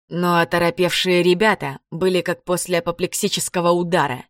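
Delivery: usual speaking voice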